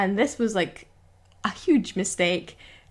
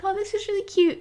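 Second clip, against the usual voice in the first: high cooing at a cute pet; mock-charmed, pitched well up; retold delight; 9 semitones higher, faster than usual. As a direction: gush lightly over the cat. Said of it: "I'd be like".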